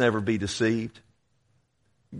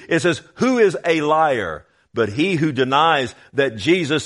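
raised, insistent pulpit voice; forceful preaching; 4 semitones higher, 4 dB louder than usual. Acted. Preacher warns congregation about deceivers, forceful preaching. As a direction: drive each scripture home with force.

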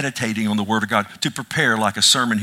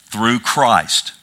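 "through Christ" set apart by a pause, weight on "Christ"; pause, then land firmly on "Christ"; emphasis on CHRIST; 2 semitones lower, 3 dB louder than usual. Shown as a demonstration. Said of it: "There's the emphasis".

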